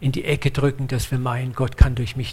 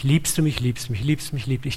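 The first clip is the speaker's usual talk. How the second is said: quick repeated question, run together and dropping softer; heruntergeleiert; 3 dB quieter, faster than usual. Retold or imitated. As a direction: rattle it off as a pointless repetition. Mocks a mechanical threefold question. (monoton heruntergeleiert)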